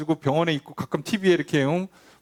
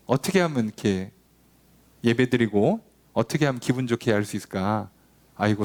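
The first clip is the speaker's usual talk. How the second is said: fretting Israelites; 4 semitones lower than usual. Acted. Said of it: "이러고 있는 거예요".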